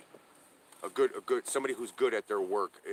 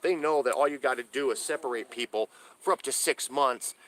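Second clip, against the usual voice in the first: heated outburst; 4 semitones higher, 3 dB louder than usual. Real, not acted. Separated father railing at the state to his viewers, raised and bitter. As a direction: hammer home the injustice.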